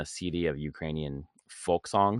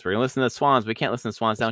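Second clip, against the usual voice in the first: higher-pitched, heated mock outburst; angry retelling; 6 semitones higher, 6 dB louder, faster than usual. Friend retelling a teen's fury over a band, angrily. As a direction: act out her angry protest, voice raised. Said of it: "She's so fucking angry".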